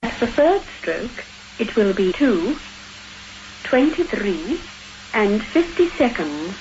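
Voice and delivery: recorded speaking clock; choppy machine-assembled time call; spliced together words. Acted. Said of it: "speaking clock you heard before".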